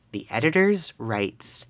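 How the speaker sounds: slow, measured reread of "the editors writes"; deliberate reread. Real, not acted. Streamer rereading a stumbled game line, slowly and deliberately. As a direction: draw out "editors writes" word by word.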